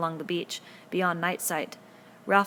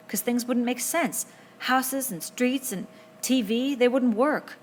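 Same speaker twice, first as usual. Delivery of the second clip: slow, higher careful reasoning; slow insistence; 6 semitones higher, 5 dB louder, slower than usual. A narrator's reading. Piggy slowly insists there are no ghosts. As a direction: spell it out deliberately.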